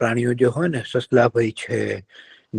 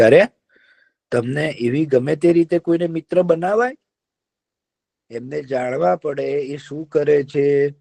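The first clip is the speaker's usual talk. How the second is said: wary crow; 3 semitones higher than usual. Acted. Crow warns the deer about new friends, wary. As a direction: caution him like a wise crow.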